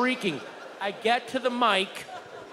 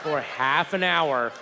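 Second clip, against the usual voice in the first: ordinary talk, nothing marked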